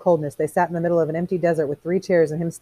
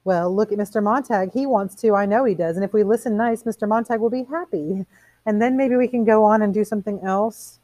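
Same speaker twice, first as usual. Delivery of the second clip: higher-pitched, placating woman's voice; coaxing woman; 6 semitones higher than usual. Acted. Missus Phelps urging they humor Montag, sweetly coaxing. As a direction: coax in a light, high voice.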